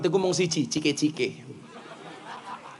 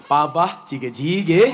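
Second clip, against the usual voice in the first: soft whisper; 3 dB louder, slower than usual. Pretend. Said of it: "katakan yang sembut di telinga suamimu".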